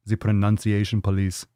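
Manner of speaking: put-on muddled German or Russian accent; vague German accent. Host jokes about being corrected, half-hearted German accent. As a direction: slip lightly into a German accent. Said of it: "German accent or whatever that accent was".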